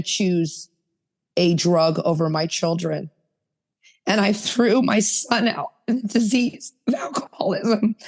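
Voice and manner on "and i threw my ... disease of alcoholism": a pained whispered confession; hushed, ashamed admission. Real, not acted. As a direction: let it drop to a breathy hush, barely voiced. Painful confession of throwing son out.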